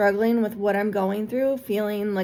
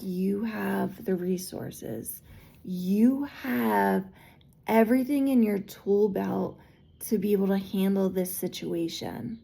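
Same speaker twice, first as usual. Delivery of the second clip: calm reassurance. Retold or imitated. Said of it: "They're like".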